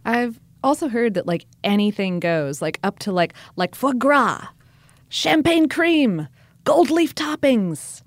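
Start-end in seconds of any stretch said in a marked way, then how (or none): 3.7-8.0 slow, high, savoring each luxury; excited. Real, not acted. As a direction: draw out the fancy words with delight. Listing extravagant fillings.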